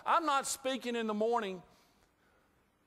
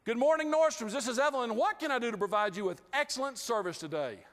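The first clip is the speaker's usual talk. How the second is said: cheerful receptionist; 3 semitones higher than usual. Retold or imitated. Evelyn answering the Nordstrom phone, lightly voiced and chipper. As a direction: greet the caller like a chipper shop assistant. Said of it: "the phone answered".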